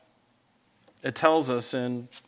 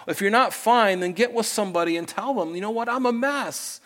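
impassioned urging; 8 semitones higher than usual. Acted. Urging congregation to confess openly.

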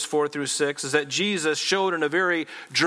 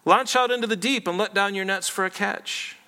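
raised, higher-pitched scripture quote; Jesus giving a command; 4 semitones higher than usual. Acted. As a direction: call out the command to Simon, lightly voiced. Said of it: "he said to Simon".

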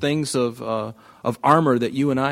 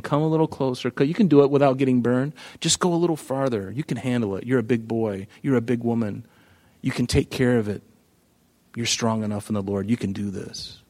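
a soft, luring devil, softer; coaxing tempter; 3 semitones lower, 4 dB quieter than usual. Acted. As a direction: tempt them gently closer, hushed and sly. Devil voiced coaxing a drug user.

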